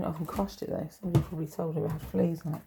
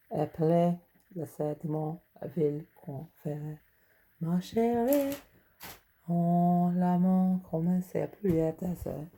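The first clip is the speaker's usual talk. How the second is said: mock French ordering; 2 semitones lower than usual. Shown as a demonstration. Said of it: "I'll read some French to you".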